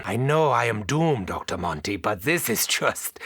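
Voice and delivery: ordinary talk, nothing marked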